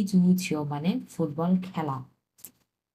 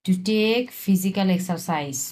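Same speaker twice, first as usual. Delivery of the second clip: slow gloss; much slower than usual. Shown as a demonstration. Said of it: "মানে হচ্ছে".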